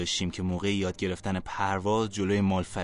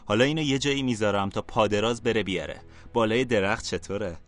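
a touch of sly smirking taunt; lightly mocking with a smile. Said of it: "موذیانه لبخند زد و گفت". (با لحنی کمی موذیانه)

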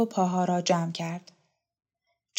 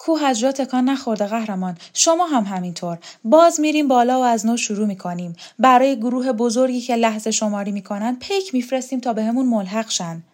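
higher, animated rallying appeal; acted earnest persuasion; resolute rebel woman; 4 semitones higher, 6 dB louder, faster than usual. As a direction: urge the old leader on with conviction.

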